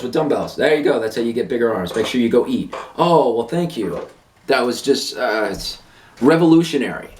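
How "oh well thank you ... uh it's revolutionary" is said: sarcastic. Acted. Sarcastic thanks to bad advice.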